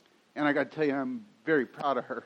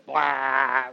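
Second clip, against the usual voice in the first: camel blah; 3 semitones lower, 4 dB louder than usual. Retold or imitated. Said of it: "that became our quick favorite".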